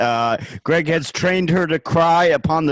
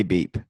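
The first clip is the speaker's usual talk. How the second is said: deadpan spoken beep; 6 semitones lower, 5 dB quieter than usual. Shown as a demonstration. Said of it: "whenever there's a beep, I say".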